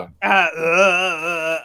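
long drawn-out mock groan; deep voice groan. Joining friend's deep-voice bit, long drawn-out groan. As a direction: drag out a silly deep-man noise. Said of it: "I'm Deep Voice's brother, Deeper".

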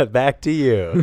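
polished news anchor sign-off; newscaster voice. Pretend. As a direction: toss it back like a newscaster. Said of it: "Is that a good newscaster voice".

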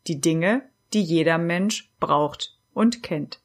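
measured poem recital with pauses between lines; unhurried Advent poem read aloud. Acted. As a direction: read the verses out evenly, letting each line settle.

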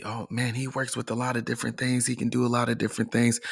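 quick, hushed mock onlooker; soft, fast aside as an amazed follower; imagined viewer. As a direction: rattle it off softly like a gossiping bystander.

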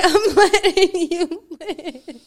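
laughing tease. Real, not acted. Teasing her partner, slow and laughing. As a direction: draw it out while laughing.

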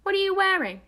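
a teasing gasp at the sweater; movie quote. Retold or imitated. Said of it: "Or is it".

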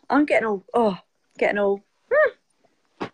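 slowed, choked-up trailing off; real welling-up emotion, words fading out; getting emotional. Real, not acted. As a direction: voice catching as tears come. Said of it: "God, I'm gonna get emotional now".

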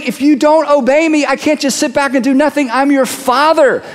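lightly voiced God warning his children; voicing God. God warning Israel, as a lightly stern father. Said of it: "God kept warning".

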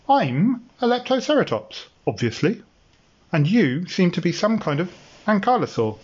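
high, know-it-all dinosaur voice; proud little dinosaur. Acted. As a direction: answer like a smug creature. Lara introduces herself.

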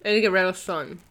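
chewing candy while talking; words around a mouthful; mouth full. Real, not acted. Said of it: "my mouth's full of Smarties".

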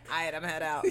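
laughing through the line. Retold or imitated. Party guest bailing on the scene, laughing. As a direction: say it while cracking up.

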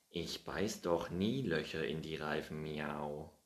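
mildly offended, indignant cat; a hint of huffy denial. Findus denying he ate the flour, a touch offended. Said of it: "antwortete der Kater beleidigt".

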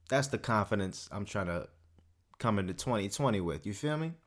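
winded after a long rant; breathless and a bit tired; out of breath. Real, not acted. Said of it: "I'm out of breath".

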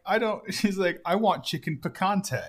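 put-on high, fussy old lady. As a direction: whine like a picky old diner.

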